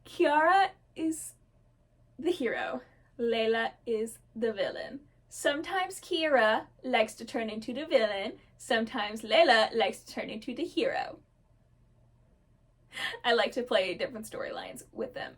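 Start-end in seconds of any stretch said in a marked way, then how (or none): 0.0-11.2 careful, spaced-out recap; measured explanation after rushing; deliberately slowed down. Real, not acted. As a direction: lay it out piece by piece, pausing between phrases. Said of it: "I need to slow down".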